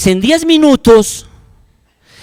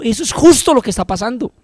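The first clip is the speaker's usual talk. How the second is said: raised, insistent warning; louder preaching of the quote; quoting the teacher; 6 semitones higher, 4 dB louder than usual. Retold or imitated. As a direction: hammer the teacher's point home. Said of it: "Y me dijo".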